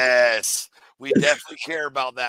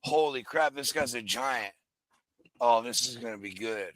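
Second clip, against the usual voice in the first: hushed, impressed aside; quiet mock awe; 4 semitones lower, 7 dB quieter than usual. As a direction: whisper it like you can't believe it. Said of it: "They were like".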